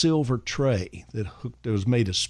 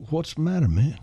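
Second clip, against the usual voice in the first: imitating a singer; 6 semitones higher than usual. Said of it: "I can't imitate him".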